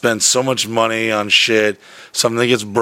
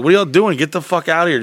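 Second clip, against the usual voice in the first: raised, higher exasperated retelling; exasperated urging; 6 semitones higher, faster than usual. Retold or imitated. Speaker urging lingering friends to leave, exasperated. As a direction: urge them out, pitch up.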